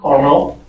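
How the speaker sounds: "Caramel" with a rising end, as a question; pronunciation demo. Shown as a demonstration. Teacher asking the class how to say "Caramel". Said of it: "How would you pronounce that word?".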